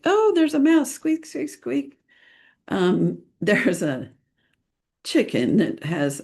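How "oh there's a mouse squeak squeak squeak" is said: high, surprised cry fading into a mouse squeak; pretend mouse squeak. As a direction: play a tiny squeaking mouse for the kids. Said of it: "then I'll like".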